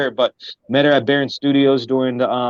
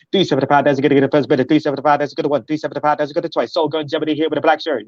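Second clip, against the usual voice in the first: rapid-fire auctioneer chant; faster than usual. Shown as a demonstration. Rapper shows how he used to auctioneer, fast chant. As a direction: rattle off the bids without a breath. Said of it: "I learned how to auctioneer".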